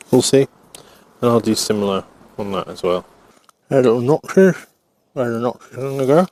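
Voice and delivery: talking around a pen held in teeth; pen in mouth. Real, not acted. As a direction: speak with a pen clamped in your mouth. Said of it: "I've got a pen in my mouth".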